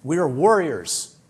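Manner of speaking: slow, loud and defiant, each word set down; mock angry declaration. Offended meditator telling the teacher off, slow and loud. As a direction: play it like an offended woman proclaiming her toughness. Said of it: "They were mad".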